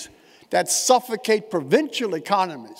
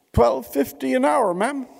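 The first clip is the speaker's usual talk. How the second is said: worker's blunt answer; 8 semitones higher, 3 dB louder than usual. Retold or imitated. Worker replies to the Queen.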